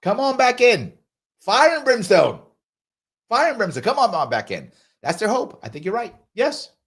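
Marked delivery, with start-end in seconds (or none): 0.0-4.7 mock preacher pleading. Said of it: "They were like".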